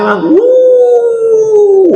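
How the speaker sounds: high, loud mock wail; loud wailing sob. Shown as a demonstration. Preacher mimicking a top-class hired crying group, loud high wail. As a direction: give the big VIP mourner's cry. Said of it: "Tapi kalau ramai".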